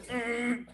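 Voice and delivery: high strained "mm" growl; angry growl. Acted. Jealous rider imagining revenge, angry growl. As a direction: mimic grinding anger. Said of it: "That's how angry I became".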